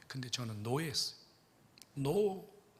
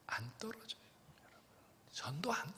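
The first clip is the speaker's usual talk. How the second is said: hushed confiding whisper; whisper aside; 9 dB quieter than usual. Real, not acted. Pastor confiding to the congregation in a whisper. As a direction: let them lean in, whispered.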